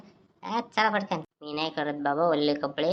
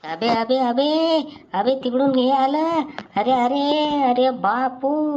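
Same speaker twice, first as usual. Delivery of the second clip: high, loud calls of alarm; raised, drawn-out exclamations; alarmed cry; 6 semitones higher, 4 dB louder, slower than usual. Acted. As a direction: warn your friends in a panic. Boys spot someone coming, raise alarm.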